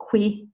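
"que" said with a kw sound; wrong "que", with the U sounded like a W; mispronounced Q U. Shown as a demonstration. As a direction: say "que" as an English "kwee" or "kweh". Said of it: "So don't say".

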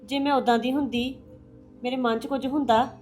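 almost too upset to speak; daughter-in-law weeping to her mother-in-law, very soft; tearful and hushed. Acted. Crying daughter-in-law complains.

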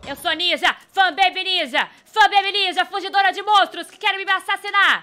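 loud, high victory yell; triumphant boasting. Real, not acted. Gamer boasts she escaped murderous monsters, triumphant yelling. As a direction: proclaim it loudly like a champion.

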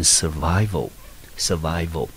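"survival" said twice as a model; pronunciation demo. Shown as a demonstration. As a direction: demonstrate "survival" for learners, then repeat it. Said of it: "整个字我们就念成survival". (示范朗读 "survival" 两遍)

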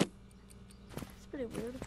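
slow, soft whisper. Real, not acted. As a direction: breathe it out softly. Noise on bed.

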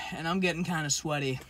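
talking around food; muffled chewing speech; mouth full, chewing. Real, not acted. Seen 1: Glasses wearer bites food, then cheeks bulge chewing while speaking.

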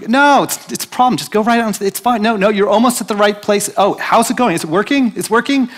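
high, loud coaxing voice; high excited coaxing. Retold or imitated. Urging Ben into traffic.

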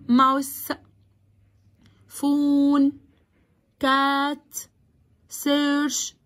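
"mouse", "phone", "cat", "search" each one level, unbroken beat; one syllable each. Shown as a demonstration. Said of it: "بنطقها one syllable". ("mouse، phone، cat، search" كل كلمة مقطع واحد ممدود)

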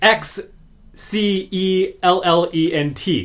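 letters X C E L L E N T spelled out with no first E; spelled without E. Shown as a demonstration. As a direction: spell excellent as X C E L L E N T. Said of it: "That is not how you spell excellent".

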